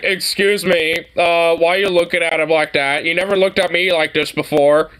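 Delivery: mock jealous boyfriend. Friend mocks a movie boyfriend, in a whiny jealous voice. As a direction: play the hurt boyfriend, half joking.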